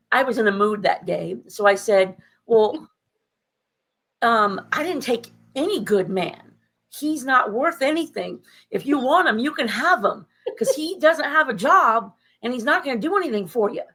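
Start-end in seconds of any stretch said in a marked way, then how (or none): 2.4-13.8 sarcastic retort. Retold or imitated. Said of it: "I was being sarcastic on purpose".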